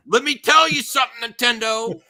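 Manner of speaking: loud high sung promo; wrestling promo shout. Acted. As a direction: belt it like a wrestling entrance. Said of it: "wrestling promo".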